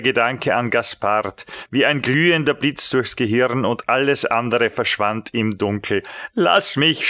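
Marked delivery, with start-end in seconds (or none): 6.3-7.1 shouted. A narrator's reading. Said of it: "schrie ich".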